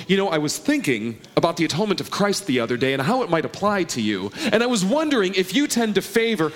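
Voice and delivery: lightly voiced lofty discussion, a touch fast; mock intellectual. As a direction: pretend to lecture the dog on theology. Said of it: "talk to your dog going".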